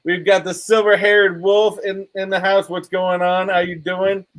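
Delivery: half-hearted New Jersey greeting; attempted New Jersey accent. Shown as a demonstration. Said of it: "New Jersey accent right there".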